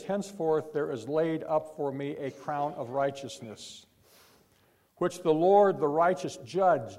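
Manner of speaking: loud, rising preacher's declamation; proclaiming scripture. Real, not acted.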